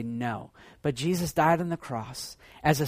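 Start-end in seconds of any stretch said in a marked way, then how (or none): 0.0-0.5 God's gentle no. Retold or imitated. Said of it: "God would say".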